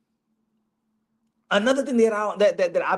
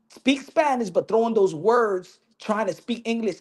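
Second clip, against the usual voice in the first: ordinary delivery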